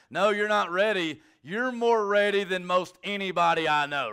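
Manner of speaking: excited outburst to Heather. Retold or imitated. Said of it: "You know, like".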